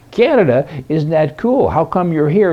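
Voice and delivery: mock manager voice. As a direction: act the manager, amazed. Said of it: "retold joke, manager replies".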